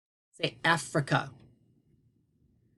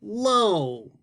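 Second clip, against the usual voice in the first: lightly voiced shy puppet greeting; a hint of a sleepy puppet saying hello; gentle puppet voice for the class; puppet Tony; 5 semitones higher than usual. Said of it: "Say our word, Tony".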